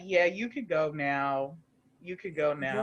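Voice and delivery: low, slow dismissal; retold cool dismissal. Retelling calm dismissal of guest.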